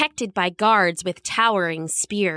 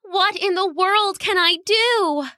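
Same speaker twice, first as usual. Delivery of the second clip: miserably to herself; 9 semitones higher than usual. Acted. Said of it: "she said to herself miserably".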